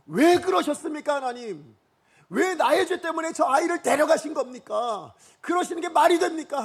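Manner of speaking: protesting to God. Pretend. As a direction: demand an answer from God, indignant. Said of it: "하고 따졌을 것 같아요". (하나님께 따지는 격앙된 목소리)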